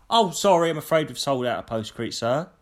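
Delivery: mock polite customer service voice, lightly done. Shown as a demonstration. How the shop worker should have told the customer, politely. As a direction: apologise sweetly, like proper service. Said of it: "But not".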